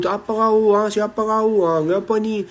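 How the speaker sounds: omelan istri Arab, agak tinggi dan keras sedikit; pura-pura memarahi suami dengan nada menantang; menirukan istri ribut. Retold or imitated. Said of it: "istri itu ribut". (tiruan istri yang ribut, marah setengah bercanda)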